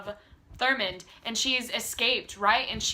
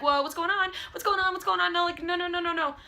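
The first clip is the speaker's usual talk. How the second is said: mock-panicked child, pitched higher; panicked girl; 7 semitones higher, faster than usual. Ruby being tested, voiced in mock panic. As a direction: imitate Ruby freaking out during the tests. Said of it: "that's how I imagine her".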